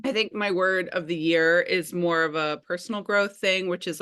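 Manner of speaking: talking with food in mouth; mouth full. Real, not acted. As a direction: speak around a mouthful of food. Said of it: "Sorry, I got food in my mouth".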